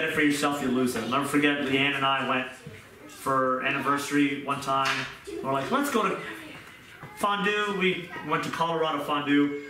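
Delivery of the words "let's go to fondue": excited suggestion. Retold or imitated. Couple plans anniversary dinner.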